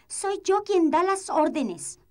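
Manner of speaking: high, slow indignant insistence; cartoon princess. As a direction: stamp her authority, word by word.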